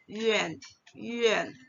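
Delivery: Yuan as "yü-en", with "e" for "a"; correct Yuan. Shown as a demonstration. Teacher explaining how Yuan is read, pronunciation demo. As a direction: glide Yuan from rounded ü into "en". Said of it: "akan dibaca menjadi".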